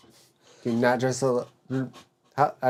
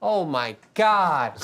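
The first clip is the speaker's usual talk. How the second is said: dread; 5 semitones higher, 3 dB louder, much slower than usual. Real, not acted. Sees big spider.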